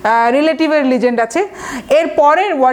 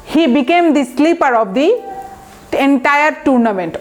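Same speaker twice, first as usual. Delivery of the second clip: slow example sentence; much slower than usual. Shown as a demonstration. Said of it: "teacher models example sentence slowly".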